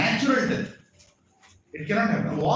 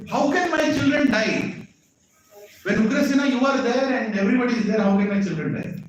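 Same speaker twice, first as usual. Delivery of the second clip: indignant questioning; 6 semitones higher than usual. Retold or imitated. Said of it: "Like that is questioning".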